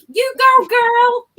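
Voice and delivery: loud, high-pitched cheering shout; Monica. Acted. Friend hyping someone up, impersonated excited shout. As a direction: whoop it out as over-the-top hype. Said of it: "Channeling Monica".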